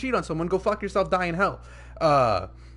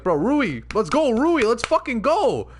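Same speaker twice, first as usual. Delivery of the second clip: hyped-up fan cheering, higher pitched; excited cheering; 4 semitones higher, 4 dB louder, slower than usual. Retold or imitated. Fan rooting for a favorite character from the start, excited cheering. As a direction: cheer on your favorite, drawing out the last words.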